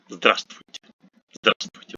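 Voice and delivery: здравствуйте without its first в, as "zdrastvuyte"; dropped first V. Shown as a demonstration. Teacher showing the simplified cluster, first в silent in здравствуйте. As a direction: drop the в before ст in здравствуйте. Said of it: "we drop, well, the first V".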